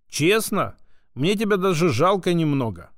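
usual speaking voice

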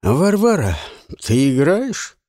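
high, loud teasing jab; cocky man's voice. Acted. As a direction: needle her with a smirk. Жуан задирает Варвару. (насмешливый голос)

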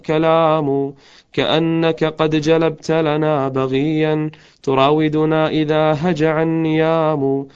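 slow, chanted recital of a lament; slow elegiac verse recital; poem recitation. Acted. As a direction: draw out each line like a mournful poem.

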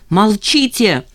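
a sharp, loud shout to silence him. A narrator's reading. Jeanne shouts down the irritating guest, loudly. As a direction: cut him off with a loud cry. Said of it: "закричала Жанна".

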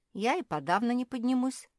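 high, loud plaintive wail; acted weepy despair; tearful. A narrator's reading. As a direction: lament as if starting to cry. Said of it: "заплакала Наретта".

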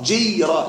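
جيرة split as jiy-ra with a held y; over-pronounced sukun. Shown as a demonstration. Teacher repeats the reading to avoid, jiy-ra with pronounced sukun in جيرة. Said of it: "لا تقل جيرة".

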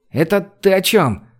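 high, slow, suspicious question. A narrator's reading. The gypsy questioning Gosha, slow suspicious ask. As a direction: probe him warily, drawing it out. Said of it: "спросил цыган подозрительно".

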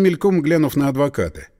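ordinary delivery

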